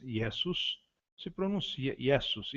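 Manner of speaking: Iesus with a hissing S, no Z; S not Z. Shown as a demonstration. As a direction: say Iesus with a sharp sibilant S. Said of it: "e não Iesus". (Iesus com S sibilante, não Z)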